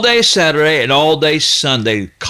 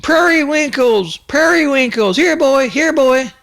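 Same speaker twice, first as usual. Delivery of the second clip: calling for the dog; 11 semitones higher than usual. Retold or imitated. Boy calling his missing dog outside, high ringing call. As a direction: call out for the lost dog, pitched way up. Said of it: "I yelled out".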